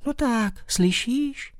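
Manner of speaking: high insistent call. Acted. Bat raises his voice at the silent mole, high call. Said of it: "Zvýšil jsem hlas".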